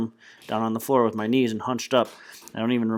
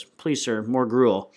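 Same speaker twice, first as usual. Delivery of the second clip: mock Oliver Twist plea; 3 dB louder, much slower than usual. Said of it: "he always says".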